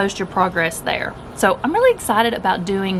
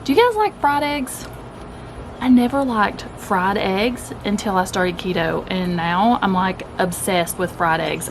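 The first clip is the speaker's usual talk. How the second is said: mouth full. Real, not acted. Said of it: "doing a lot of talking with my mouth full".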